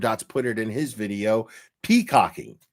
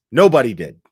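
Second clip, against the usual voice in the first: louder, punched "Nobody did."; emphatic; 9 dB louder than usual. Real, not acted. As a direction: hit "Nobody did." hard and loud. Emphatic repeat.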